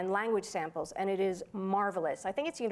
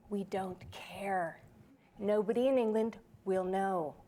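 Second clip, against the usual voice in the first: dismissive client; slower than usual. Retold or imitated. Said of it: "And they went".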